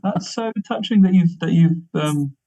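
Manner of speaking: high, touched and delighted; delighted surprise. Real, not acted. Touched by the Punchbag mention.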